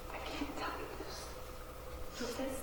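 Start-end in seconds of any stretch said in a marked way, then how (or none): 0.1-1.3 unvoiced, softer whisper; a servant who can't bear to tell Job, whispering; holding back tears. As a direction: barely get it out, choking back tears. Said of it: "trying not to cry".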